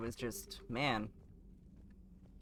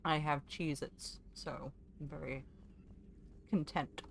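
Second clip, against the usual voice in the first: crunching chips. Real, not acted. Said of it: "Sorry for the crunching".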